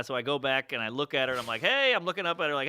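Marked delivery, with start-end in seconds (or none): 1.6-1.9 high-pitched hey to a balcony; mock call up to a balcony; yelling up. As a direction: call up to someone overhead. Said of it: "You're yelling up to the".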